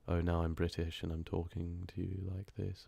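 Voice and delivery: softly spoken mock British accent. Shown as a demonstration. Narrator demonstrating accents to chat, British accent. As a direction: put on a quiet British accent. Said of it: "then you have the accent".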